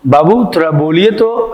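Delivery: lightly voiced coaxing adult asking a kid to say a word; coaxing a child. Teacher imitating an adult coaxing a child, lightly coaxing. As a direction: gently coax the little one, only lightly acted. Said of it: "जैसे कई छात्र ऐसे होंगे जिसको बोलो".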